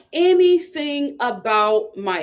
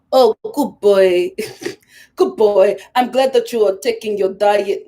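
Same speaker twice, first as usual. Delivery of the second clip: imitating Natalie; 3 semitones lower than usual. A hammed-up coo from a girlfriend praising her boyfriend's diet. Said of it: "let me try to do it".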